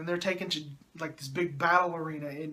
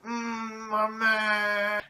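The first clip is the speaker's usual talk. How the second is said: high, drawn-out mock wail; hammed-up grief over a dying mother; 4 semitones higher, much slower than usual. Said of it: "then Anakin's like".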